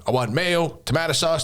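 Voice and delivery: light Manchester-American impression; hint of mock Mancunian-American; Robert Irvine's accent. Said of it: "mixture of a Ma-, Manchester and American accent".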